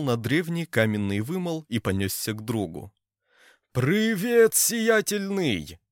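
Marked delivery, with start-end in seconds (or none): 3.7-5.8 very high, loud, slow greeting cry; joyful yell. A narrator's reading. Ponchik yells a greeting running to Oleg. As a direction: shout across the pier to your friend. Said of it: "вопил он".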